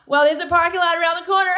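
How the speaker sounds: mock snotty girl. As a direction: toss it off like a smug brat. Mocking Heather's snotty reply.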